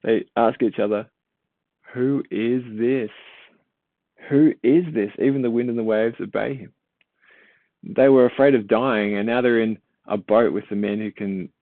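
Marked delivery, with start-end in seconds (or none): 1.9-6.7 awed disbelief. Acted. Disciples amazed and afraid.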